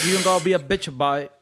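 lightly put-on London accent; a hint of mock Londoner. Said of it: "say it with an accent".

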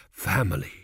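low, musing single word; softened. A narrator's reading. Priest recalling a forgotten family, softened. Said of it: "his voice softened from its normal bark".

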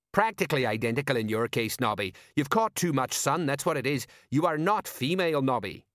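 lightly voiced exasperated sergeant; exasperated Colon. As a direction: tell off your deluded mate, mildly exasperated.

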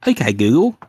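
loud put-on command to a phone; mock voice-command; Okay Google voice. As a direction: call out to the voice assistant, hammed up. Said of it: "doing the "Okay, Google" voice".

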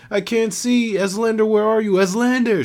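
high, loud panicked cries; blinded woman calling for Eslander in terror; shouted in despair. A narrator's reading. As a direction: scream for him blindly, terrified. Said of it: "she shouted in despair".

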